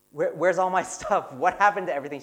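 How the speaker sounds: mock indignant complaint. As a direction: imitate a put-out husband demanding answers. Acted quarrel with wife over tidying.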